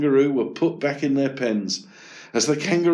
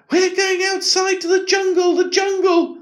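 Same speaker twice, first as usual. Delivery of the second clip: very high, loud giddy animal voice; excited gazelles; 5 dB louder than usual. Acted. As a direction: squeal it with joy.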